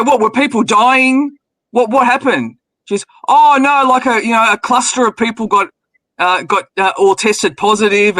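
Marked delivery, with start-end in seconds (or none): 0.0-2.6 higher, drawn-out mock alarm; retold alarmed questioning. Host quizzing woman about the covid ward, mock alarmed. Retelling own shocked questions to her. 3.3-6.9 retold real seriousness. Woman explaining the hospital outbreak, mock serious. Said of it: "like, real serious". 7.0-8.2 slower, imitated grave report; retold real seriousness. Woman reporting hospital test results, mock serious. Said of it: "like, real serious".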